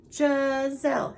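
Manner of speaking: Giselle split slowly into two syllables; counting syllables. Shown as a demonstration. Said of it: "How many syllables?".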